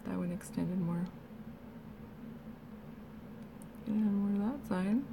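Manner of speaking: talking with jaw held open; mouth propped open. Real, not acted. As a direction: keep your mouth open while speaking. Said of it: "it's weird when I close my mouth".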